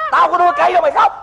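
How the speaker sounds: urgent, rapid telling-off; exasperated scolding. Acted. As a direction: rush out an exasperated reproach. Master repeats scolding, more urgently.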